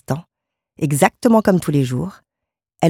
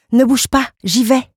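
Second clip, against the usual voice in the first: higher, quick-to-help wife; eager exclamation; 8 semitones higher, 3 dB louder than usual. A narrator's reading. Wife jumping up to spare her husband the effort, eager exclamation. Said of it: "s'écria-t-elle en sautant sur ses pieds".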